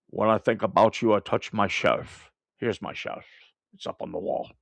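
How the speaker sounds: lightly voiced Sean Connery, Scottish accent, fading to a breath. Streamer doing Sean Connery for a chat request, Scottish accent. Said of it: "I could just do Sean Connery".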